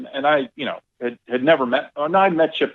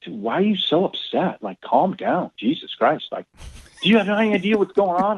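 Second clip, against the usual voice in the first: higher, mock-angry rant from the golf buddy; imitating furious Brian; 8 semitones higher than usual. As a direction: ham up a friend losing his cool. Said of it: "Brian goes ballistic".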